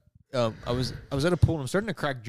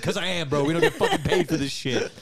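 high, indignant comic protest; offended and half laughing, pitch climbing; retold angry retort; 5 semitones higher than usual. Retelling his answer about not getting paid, mock indignant. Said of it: "I was so angry".

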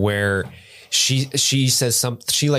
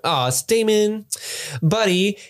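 fond cooing; 11 semitones higher than usual. Acted. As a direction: gush fondly at a lovable rogue. Mock-fond address to a character.

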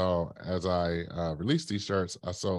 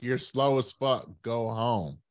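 higher, slower heckler taunt; repeated heckle; 5 semitones higher, slower than usual. Retold or imitated. Runner retelling the heckler repeating himself, higher and slower taunt. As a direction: drag the insult out mockingly. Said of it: "He's like".

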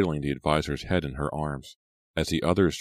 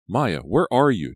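high, loud call, drawn out; 6 semitones higher, 7 dB louder, slower than usual. A narrator's reading. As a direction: call out searching for someone. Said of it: "Della called".

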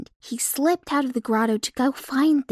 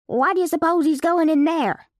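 puzzled; 6 semitones higher than usual. Acted. Puzzled twin asks.

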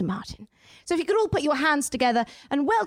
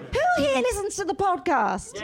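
calling out to crowd; 4 semitones higher than usual. Real, not acted. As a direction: call it out to the back row. Shouting to live crowd.

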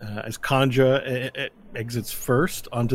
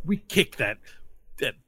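cocky rival; 3 semitones higher, 4 dB louder than usual. Acted. GM plays cocky rival Kanja.

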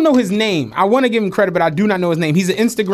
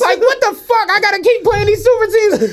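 mock fed-up LeBron; 12 semitones higher than usual. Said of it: "He's like".

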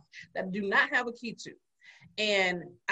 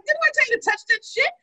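retold scolding; 14 semitones higher, 5 dB louder than usual. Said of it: "I'm like".

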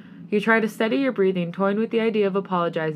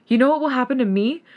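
higher, louder, angry challenge; furious ranting; 6 semitones higher, 5 dB louder than usual. A narrator's reading. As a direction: launch a heated rant. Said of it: "You're furious as you continue ranting".

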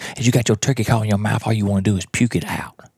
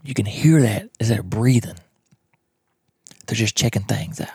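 whisper. Real, not acted. Hunter hushed near turkeys.

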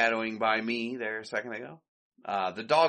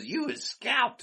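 shocked maid; 13 semitones higher, slower than usual. Retold or imitated.

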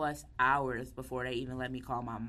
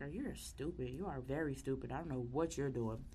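inner thought; 2 semitones lower, 6 dB quieter than usual. Retold or imitated. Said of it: "In my head, I'm like".

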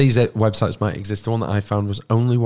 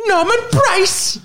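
put-on very high, slow squeaky child voice; Norman Price voice; much slower than usual. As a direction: squeal it like a cartoon kid. Fireman Sam character voice.

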